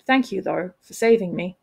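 mild, understated thanks; a touch of awkward sincerity; sincere. Acted. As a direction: thank them simply and earnestly. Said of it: "added with a sincerity".

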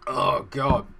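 loud strained gasp; a hoarse gasp after coughing; gasping after choking. Real, not acted. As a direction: catch your breath after a choke. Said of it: "I'm so sorry".

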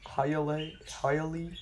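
whispering "Hialeah" to yourself; whispered try. Shown as a demonstration. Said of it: "How to pronounce?".

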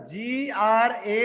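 जी आर ए spelled letter by letter, slow; spelling it out. Shown as a demonstration. Teacher dictating spelling to students, slow letters. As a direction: slowly spell out जी आर ए. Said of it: "grammar".

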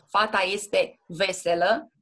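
veselă stressed on the first syllable, VE-selă. Shown as a demonstration. Tutor showing Andrei correct stress, deliberate. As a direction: hit VE in veselă. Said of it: "Accentuez prima silabă".

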